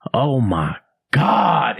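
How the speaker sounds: breathy despairing whisper into the mic; whispered oh my god. Retold or imitated. Comic realizing the set is dying, hopeless whisper. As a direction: whisper it like you've given up. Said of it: "looks back and goes".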